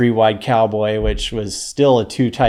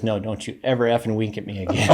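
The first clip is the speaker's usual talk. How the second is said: straight-faced coach; 5 dB quieter than usual. Retold or imitated. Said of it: "Straight face".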